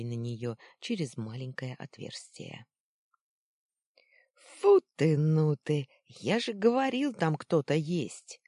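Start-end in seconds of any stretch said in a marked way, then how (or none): 4.3-8.4 triumphant shout. Acted. First boy loudly gloating to his friend about the stranger. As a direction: crow that you were right all along. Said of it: "торжествующе закричал первый голос".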